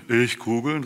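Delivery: mildly indignant echo question; incredulous exclamation. A narrator's reading. Pike asked by carps for baubles, incredulous. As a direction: toss it back in mild disbelief. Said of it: "rief der Hecht".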